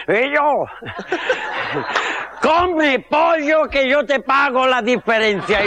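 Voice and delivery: lightly voiced parrot calling out; mock parrot shout; talking parrot. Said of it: "Y dice el loro a este".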